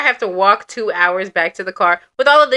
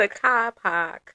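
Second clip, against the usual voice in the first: put-on British accent; 7 dB quieter, much slower than usual. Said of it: "Why you gotta drag it out".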